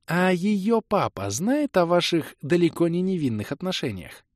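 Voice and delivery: high, gently pointed female voice; soft insinuation. A narrator's reading. Kelen asking about the girl's father, soft insinuation. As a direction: ask sweetly, with a sting. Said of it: "мягко произнесла Кэлен".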